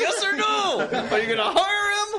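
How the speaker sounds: high, loud, hammering demand; pushy shouting demand. Retold or imitated. Agent pressing producers to hire, loud and high. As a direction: badger them for a yes or no.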